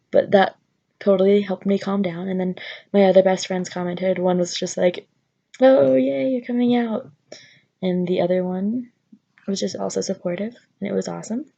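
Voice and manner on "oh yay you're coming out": higher and louder, bubbly cheer; cheery excited friend. Retold or imitated. Best friend cheering her coming out, excited. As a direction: squeal it like a thrilled friend.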